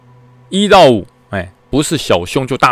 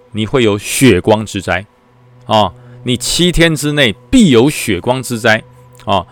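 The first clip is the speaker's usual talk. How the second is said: ominous fortune teller. Retold or imitated. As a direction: drag out the doom like a mock oracle. Temple keeper's ominous prophecy.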